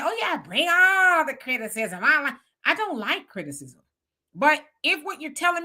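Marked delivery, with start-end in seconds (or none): 0.0-2.0 slow mock eagerness; lightly sarcastic, drawn out. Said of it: "you'd be a liar to say".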